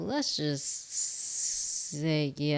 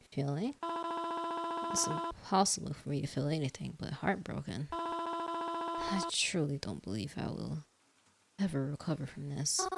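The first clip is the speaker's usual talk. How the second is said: heartbroken; 5 semitones higher, 3 dB quieter than usual. Acted. Mother tells her heartbreak.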